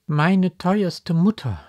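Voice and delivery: slow, high, loud cry of affection; joyfully moved exclamation. A narrator's reading. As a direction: call out fondly, drawing out each word. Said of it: "rief die Marquise und neigte sich voll froher Rührung". (freudig gerührt ausrufend)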